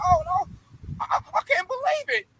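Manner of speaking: very high put-on wail of disbelief; mock distress. Host mocking a distraught Macron, very high. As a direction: whine like a leader losing it. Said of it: "he losing his mind".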